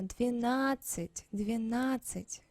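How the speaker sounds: двенадцать with no d before the ц; silent d. Shown as a demonstration. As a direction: repeat двенадцать carefully, leaving out the д. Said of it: "You do not hear this".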